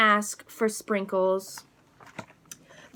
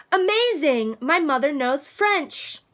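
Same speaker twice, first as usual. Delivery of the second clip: amazed; 4 semitones higher than usual. Acted. Nancy impressed by mom's French.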